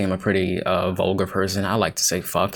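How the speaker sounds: usual speaking voice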